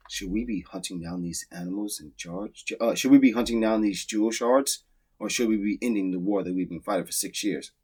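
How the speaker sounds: hushed, play the character's solemn thought; mock inner musing. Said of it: "And he thinks to himself".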